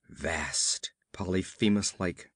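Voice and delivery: breathy whispered words, drawn out in dread; awed whisper. A narrator's reading. Narrator describing the monster rising from the water, whispered in dread. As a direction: whisper it like you can barely bear to.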